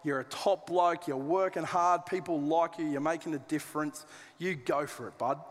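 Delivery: lightly voiced matey pat on the back; casual Aussie paraphrase. Preacher playing Paul praising Philemon, easygoing. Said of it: "Let me translate that for you".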